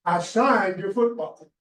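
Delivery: slow and firm, every word weighed; a curt, final refusal; emphatic. Retold or imitated. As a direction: shut him down slowly, few words. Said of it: "were very emphatic".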